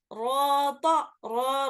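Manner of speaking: रॉ with its vowel held for two counts. Shown as a demonstration. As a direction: hold the रॉ vowel long, as in recitation. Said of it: "दो हरकत खींच कर पढ़ रहे हैं". (रॉ को दो हरकत खींचना)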